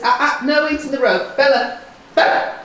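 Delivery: sharp, loud, high warning; harsh tone. Real, not acted. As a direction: snap at the horse to stop her chewing. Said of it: "a harsh tone in the voice means don't".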